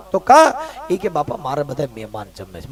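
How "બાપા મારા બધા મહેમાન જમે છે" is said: much lower, much softer brush-off; curt guru. Retold or imitated. Guru refusing bhagat food, low and hushed. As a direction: brush him aside under your breath.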